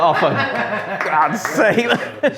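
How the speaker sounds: high, laughing mock exasperation; wife on the plane, amused and exasperated, laughing. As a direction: laugh it out, rolling your eyes.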